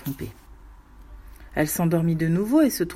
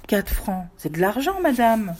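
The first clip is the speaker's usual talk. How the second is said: resigned; 3 semitones higher than usual. Acted. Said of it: "Rose, toujours résignée, répétait".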